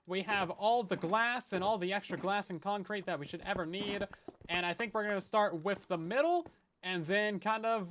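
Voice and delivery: bright video-host pitch, hammed up; YouTuber voice. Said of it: "Activate YouTuber voice".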